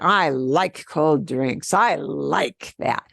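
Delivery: slow, weighty stress on "I like"; emphatic intonation. Shown as a demonstration. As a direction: lean on "like" and draw the words out. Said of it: "We would do that with intonation".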